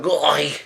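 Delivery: high mock cry of pain; retold yelp. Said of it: "he yells out".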